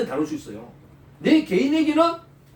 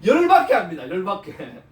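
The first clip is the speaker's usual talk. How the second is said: laughing; 4 semitones lower, 3 dB louder than usual. Real, not acted. Preacher laughing at the word.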